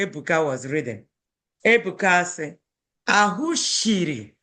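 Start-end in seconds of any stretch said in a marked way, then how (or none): 3.1-4.3 "shiri" with a hushing sh, drawn out; "Ahụ shiri" slow, the sh clearly shown; dialect "sh" pronunciation. Shown as a demonstration. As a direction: slowly demonstrate "shiri" with sh for s. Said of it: "That's Ebuka's dialect".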